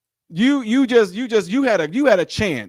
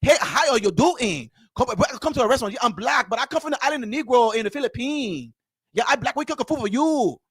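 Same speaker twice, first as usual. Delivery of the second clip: mock restaurant host; 4 semitones higher than usual. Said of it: "go in there and go".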